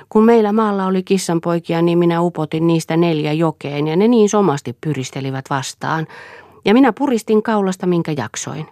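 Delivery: put-on a strange girl recalling cruelty with relish; simple-minded servant girl. A narrator's reading. Silja voiced by narrator. (korkeampi tytön ääni, oudon innostunut)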